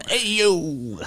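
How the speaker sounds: high, soft laughing repeat; laughing echo. Real, not acted. Echoes call laughing.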